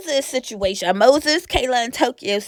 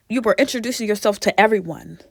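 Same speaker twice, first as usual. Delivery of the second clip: whisper; much faster than usual. Real, not acted. Aside while recapping introductions.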